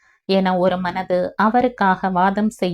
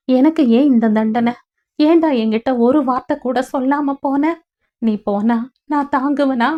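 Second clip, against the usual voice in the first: higher, rising distressed pleading; agitated rush of words; 5 semitones higher than usual. Acted. Suseela reproaching Nithila on the phone, agitated and higher. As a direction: pour it out, hurt and breathless. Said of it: "படபடவென பேச".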